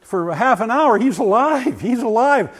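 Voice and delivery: man saved, crying with joy; overcome with emotion. Real, not acted. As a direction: let the joy break through. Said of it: "I just started crying".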